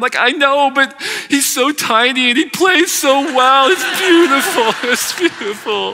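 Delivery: very high, tearful, drawn-out blubbering sobs. Telling how his wife caught him crying at a movie, acting out his own sobbing.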